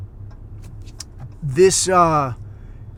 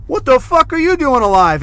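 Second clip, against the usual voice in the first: high, loud retold disbelief; loud, incredulous greeting to someone presumed gone; astonished outburst; 9 semitones higher, 6 dB louder than usual. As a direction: blurt it out in acted shock. Retells shock at meeting missing man.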